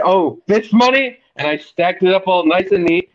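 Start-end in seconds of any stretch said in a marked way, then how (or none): 0.0-1.2 mock innocent question. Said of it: "And I said".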